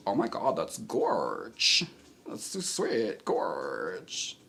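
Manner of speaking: swooping, breathy-free camp drag voice; Doll Thighs voice. Pretend. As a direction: play a chat viewer as a gushing queen. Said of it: "we're gonna do Doll Thighs right now".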